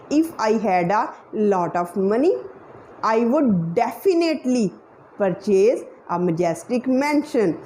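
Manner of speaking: "definitely" leaned on, followed by a short break; stress on DEFINITELY. Shown as a demonstration. Coach shows how to stress the adverb, emphasis on "definitely". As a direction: make "definitely" the strongest word of the sentence. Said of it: "I have stressed definitely".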